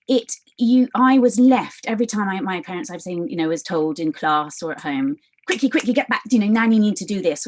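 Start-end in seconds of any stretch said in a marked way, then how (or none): 5.5-7.5 higher, urgent mock-parent chivvying; hurrying a child. Adult hurrying a child in class or at home, mock urgency. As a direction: chivvy a child along, lightly acted.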